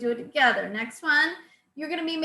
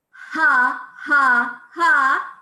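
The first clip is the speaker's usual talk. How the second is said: three loud punched belly-laugh has; 7 dB louder, much slower than usual. Shown as a demonstration. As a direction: pump out each ha from the diaphragm. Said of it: "Number three".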